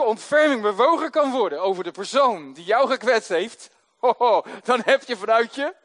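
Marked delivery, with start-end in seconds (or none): 3.8-5.7 bursts into a loud laugh; joyful laugh breaking through; real joyful laugh. Real, not acted. Preacher laughs mid sentence.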